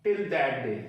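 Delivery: very slow, formal courtroom pronouncement; courtroom announcement. Retold or imitated. Teacher quoting how lawyers say it in court, slow formal delivery. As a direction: announce it like a judge closing the session. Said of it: "मैंने तो आज तक word यही सुना".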